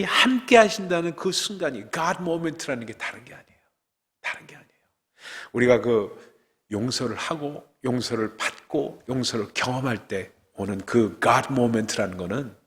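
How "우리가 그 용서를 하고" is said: normal talking voice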